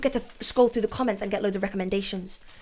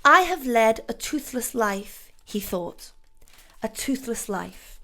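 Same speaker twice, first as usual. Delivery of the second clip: dramatic reading. Shown as a demonstration. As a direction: read it like a weighty confession. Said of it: "I'm gonna read it to you".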